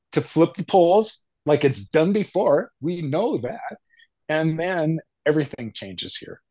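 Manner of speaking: breathless, gasping between phrases; talking while short of breath. Real, not acted. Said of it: "I'm out of breath".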